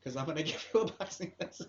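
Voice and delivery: De La Hoya. Acted. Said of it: "then do De La Hoya".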